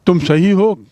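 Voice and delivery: checking the phrase aloud; questioning echo. Shown as a demonstration. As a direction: turn the words back into a question. Teacher echoes reply as question.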